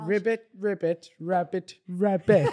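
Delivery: punchline in an attempted Welsh accent. Retrying the joke's punchline for co-hosts, Welsh accent. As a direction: deliver it with a Welsh lilt. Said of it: "rub it in Welsh".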